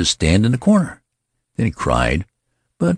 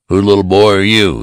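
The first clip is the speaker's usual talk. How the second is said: kindly demand; 4 semitones higher, 8 dB louder than usual. A narrator's reading. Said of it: "he demanded kindly".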